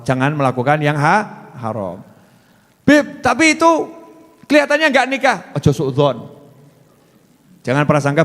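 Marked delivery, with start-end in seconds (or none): 2.9-5.4 mock wife objecting. Preacher voicing the wife's doubt to the Habib, high and whiny.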